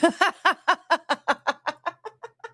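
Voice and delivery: high staccato cackle; long laughing fit. Real, not acted. Laughs after failed teleport line.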